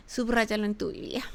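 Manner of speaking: susurrado tras un jadeo de asombro; cuéntaselo como un secreto emocionante; susurro. Real, not acted. Exhorta a la congregación en secreto. (el predicador pide subrayar el versículo, en susurro)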